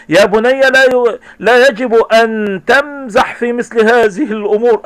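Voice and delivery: a touch of angry scolding. Acted. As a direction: scold the boy firmly. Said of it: "منقذ الشاطئ غاضبًا".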